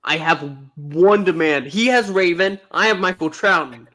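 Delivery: mock demanding. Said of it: "Pixel, calm down".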